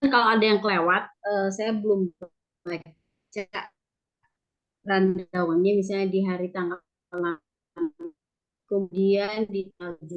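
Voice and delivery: choppy dropouts on a bad line; connection breaking up. Real, not acted. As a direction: voice cutting in and out. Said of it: "suaranya putus-putus".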